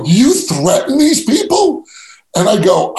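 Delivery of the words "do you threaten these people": mocking question. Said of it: "They go".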